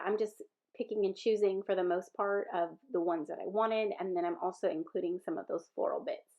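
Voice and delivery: blocked nose from a sinus infection; stuffy nose. Real, not acted. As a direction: talk through a stuffed-up nose. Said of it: "I'm sorry if I sound stuffy".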